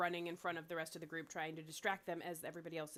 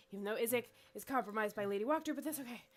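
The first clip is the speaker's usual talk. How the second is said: loud for the guards; 5 semitones higher, 4 dB louder, faster than usual. Acted. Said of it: "she'll just say out loud so one of the guards could hear".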